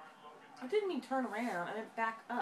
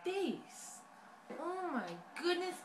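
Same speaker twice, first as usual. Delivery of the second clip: laughing; 4 semitones higher, 4 dB quieter, slower than usual. Real, not acted. Mom laughs at child's face.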